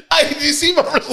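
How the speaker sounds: high laughing talk; words broken by laughter; laughing hard. Real, not acted. Bursts into laughter.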